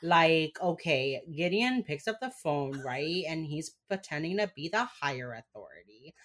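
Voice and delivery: animated Cuban-Miami accent. Shown as a demonstration. Host demonstrating real accent on recap, Miami accent. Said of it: "That's my actual accent".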